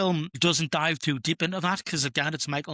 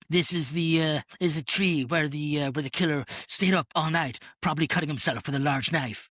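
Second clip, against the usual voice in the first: terrible Cartman impression. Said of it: "That was a terrible Cartman impression".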